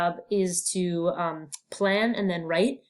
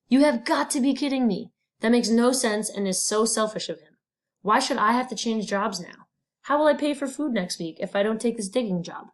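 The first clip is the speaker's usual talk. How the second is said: higher-pitched, indignant disbelief; mild indignation; 3 semitones higher than usual. Acted. Teacher voicing Miguel's thoughts on losing his job, mildly indignant. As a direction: read it as mildly outraged protest.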